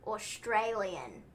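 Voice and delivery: slow, drawn-out go at an Australian accent; attempted Australian accent. Shown as a demonstration. Showing the one word that sounds Australian, attempted Australian accent. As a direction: try an Australian accent, stretching "Australian". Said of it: "the only thing that I can say that sounds remotely Australian".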